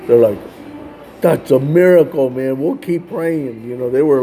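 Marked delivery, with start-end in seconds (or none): 1.2-3.6 imitating excited family. Family hearing the gang converted, mildly excited. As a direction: lift the voice like happy news just landed. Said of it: "like, excited".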